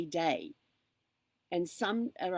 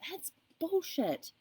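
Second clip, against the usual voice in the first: high, slow, drawn-out scorn; scornful; 11 semitones higher, much slower than usual. Real, not acted. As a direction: dismiss it with disgust. Rejecting the big house dream.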